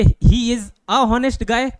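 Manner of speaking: slow, deliberate "a honest guy"; wrong article, slowly. Shown as a demonstration. Teacher to class, slowly posing the wrong option. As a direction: spell out "he is a honest guy" word by word. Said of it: "कि an honest guy".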